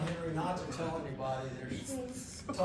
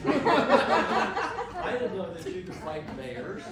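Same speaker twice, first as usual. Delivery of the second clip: laughing quote; 4 dB louder, much slower than usual. Retold or imitated. Quoting praise, laughing.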